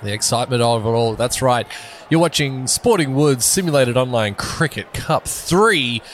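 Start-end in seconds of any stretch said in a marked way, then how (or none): 2.1-6.0 promo read. Acted. Mock broadcast promo read.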